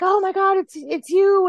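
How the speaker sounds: imitating a thrilled, high-pitched greeting; acting out an excited fan-style hello. Retelling excited greeting from actress.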